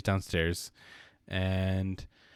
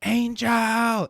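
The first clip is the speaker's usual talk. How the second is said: higher, louder call of a name; retold yell; 13 semitones higher, 7 dB louder than usual. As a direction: call the name across the house. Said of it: "I hear someone yell".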